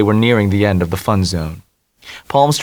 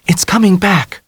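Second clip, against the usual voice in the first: high, louder alarm; urgent warning; 11 semitones higher, 4 dB louder than usual. A narrator's reading. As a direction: sound the alarm. Dell warns of the beast.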